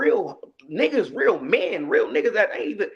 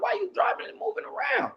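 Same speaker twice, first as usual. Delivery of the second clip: exasperated high complaint; 5 dB quieter than usual. Retold or imitated. Complaining to the driver.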